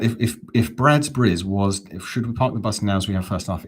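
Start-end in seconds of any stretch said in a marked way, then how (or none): 2.0-3.6 tentative blend of Devon and Dagenham; rough go at Devon Dagenham; Devon Dagenham accent. Shown as a demonstration. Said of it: "If that was Devon Dagenham".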